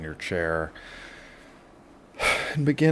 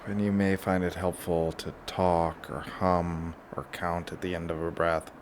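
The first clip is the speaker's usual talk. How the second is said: guided relaxation; 6 dB quieter than usual. Shown as a demonstration. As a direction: lead them gently through each breath. Leads a breathing relaxation.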